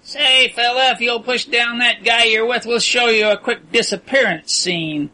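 high, coarse taunting voice; a cocky prisoner jeering upward; rowdy prisoner. A narrator's reading. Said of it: "a wild clamor from below".

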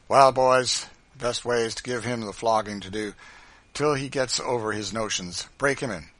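loud, forceful boss voice; hard, commanding tone; brutal master. A narrator's reading. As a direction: give cruel orders with authority. Legree orders a flogging.

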